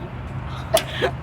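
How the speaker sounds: a soft, breathless sob; a quick broken sob in the retelling; crying sob. Retold or imitated. After dad says get off the phone, a sob. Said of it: "I was crying".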